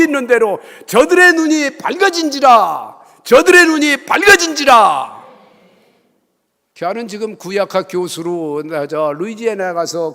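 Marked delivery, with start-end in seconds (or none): 0.9-5.2 loud, slow scripture declaration; scripture proclaimed. Real, not acted. Preacher quoting the verse to congregation: loud, slow. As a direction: ring out the verse.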